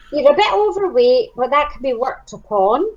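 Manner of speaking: running short of breath; words squeezed out on the last breath. Real, not acted. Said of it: "Amy, you really ran out of breath then".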